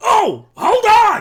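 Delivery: very shrill, loud, booming call across a distance. Telling a story, acting out a man yelling from across the cemetery: acting out a distant yell. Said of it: "like yelling at you from his home".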